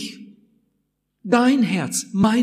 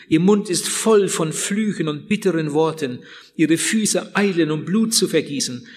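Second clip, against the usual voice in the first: scripture reading; 3 semitones lower than usual. Acted. Preacher reading Romans to the congregation, solemn. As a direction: read the verses gravely to the congregation.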